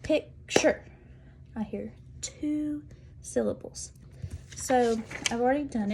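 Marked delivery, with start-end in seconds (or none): 0.0-3.9 whispered demo. Shown as a demonstration. Teacher whispering a word to count its syllables. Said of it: "identify how many syllables".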